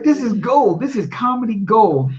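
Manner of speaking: delighted father. Retold or imitated. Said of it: "He's like".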